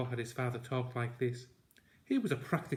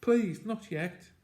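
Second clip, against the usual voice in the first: panicked plea; 8 semitones higher, 5 dB louder, slower than usual. Acted. Boy pleading in panic.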